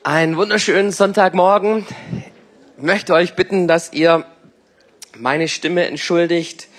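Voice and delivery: scratchy sore-throat voice; hoarse voice. Real, not acted. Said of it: "meine Stimme entschuldigt … mich hat's irgendwie angekratzt".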